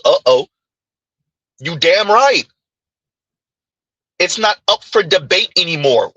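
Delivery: a hint of a smug boyfriend laying down rules; voicing the men. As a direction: lay down the law like a smug man. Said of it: "And B G S says".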